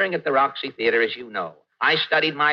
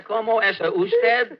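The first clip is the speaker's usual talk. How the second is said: first Spanish try; 5 semitones higher than usual. Pretend. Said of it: "Would you repeat that, please?".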